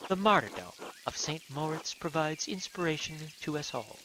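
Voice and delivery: a gentle brother speaking softly; a lightly voiced pious monk; soft-spoken monk.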